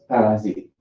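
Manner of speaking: PARASITE said the French way, with Z for S. Shown as a demonstration. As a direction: say "parasite" as pa-ra-zeet. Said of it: "will pronounce the S like, like a Z".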